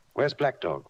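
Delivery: crying out. A narrator's reading. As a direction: call out for Black Dog, alarmed.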